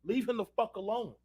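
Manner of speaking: softly voiced janitor telling him off; janitor's aside. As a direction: say it quietly, almost under breath. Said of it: "Mexican janitor had to say".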